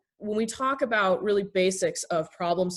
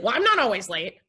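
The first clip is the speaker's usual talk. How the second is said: defensive retort; 3 semitones higher, 4 dB louder than usual. Acted. Acted quarrel over lateness.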